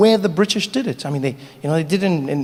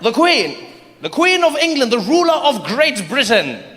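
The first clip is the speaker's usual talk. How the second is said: high, slow grand British officer; pompous proclamation; 3 semitones higher than usual. Acted.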